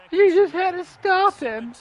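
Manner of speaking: high, strained coach lament; hammed-up anguish, word by word; despairing coach. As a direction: reproach the team as a devastated coach.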